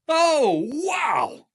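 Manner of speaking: high, loud laughing oh wow; be floored and thrilled; officer arriving at the NCOs' surprise, high and amazed; delighted surprise. Retold or imitated.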